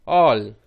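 ऑल with an open 'aw' vowel, then l; loud, held ऑल; pronunciation demo. Shown as a demonstration. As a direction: sound out ऑल for learners. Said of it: "एएल का उच्चारण होगा".

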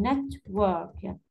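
Network with the first syllable stressed; Network, weight on its opening syllable; stress on NET. Shown as a demonstration. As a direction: hit NET, then let work follow. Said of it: "يجي stress في الأول".

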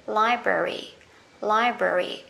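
British "Library" with a schwa middle; British pronunciation. Shown as a demonstration. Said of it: "âm ơ nhé".

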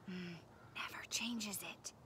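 hushed, furtive whisper. A narrator's reading. Og nervously explaining about the unchanged password, whispered. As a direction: drop into a fearful whisper. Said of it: "whispered Og".

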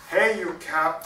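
loud call to a cow; shouting. Acted. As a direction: call out to someone blocking the road. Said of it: "shouted Peter".

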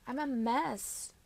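a slow little whine of self-reproach; dismayed. A narrator's reading. Girlfriend frowning at herself in the mirror, dismayed. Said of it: "frowning in the mirror".

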